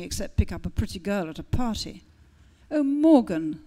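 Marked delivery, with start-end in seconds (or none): 2.7-3.6 cried out. Acted. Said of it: "cried Melusine".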